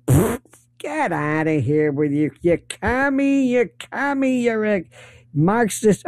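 lampoon a sneering pundit; mocking Republicans. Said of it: "what do the Republicans do?".

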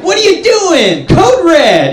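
high frantic manager yelling; flipping out. Retold or imitated. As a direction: panic like a manager who caught a thief. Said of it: "he's, like, flipping out".

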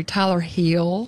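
drawn-out Southern mimicry of a name; country accent. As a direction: stretch it into a country Southern drawl. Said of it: "This is so country".

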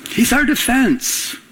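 ordinary delivery

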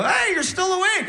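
high, sing-song cheery hello; mock tender boyfriend greeting; sweet greeting. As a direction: coo it at her sweetly. Greeting girlfriend in bed.

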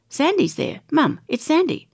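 put-on high, excited child's voice; thrilled little girl spotting a star. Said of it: "I said to Mum".

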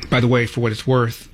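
ordinary talk, nothing marked

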